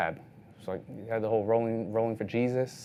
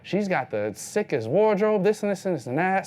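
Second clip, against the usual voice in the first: much higher gushing fan; gushing designer; 9 semitones higher, 4 dB louder than usual. Retold or imitated. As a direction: rave about her wardrobe. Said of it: "he's like".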